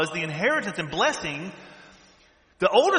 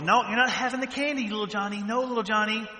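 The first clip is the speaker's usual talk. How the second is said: mother scolding; 4 semitones higher than usual. Retold or imitated. Mother scolding kid at checkout.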